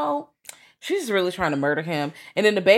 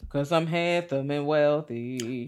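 slow mock quote; 2 semitones lower, 4 dB quieter, slower than usual. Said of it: "'Cause I'm ha".

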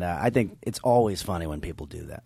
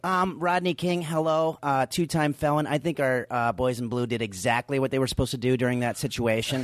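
lightly voiced right-wing guy, a bit higher at first; Improv guy's voice; 4 semitones higher than usual. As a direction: do a hint of an arch-conservative character. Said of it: "who had that voice one time".

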